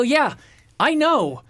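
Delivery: high-pitched exasperated outburst; freaking out. Retold or imitated. Traveler losing it at the supervisor, exasperated. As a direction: retell losing patience, voice jumping up high. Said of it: "I'm freaking out".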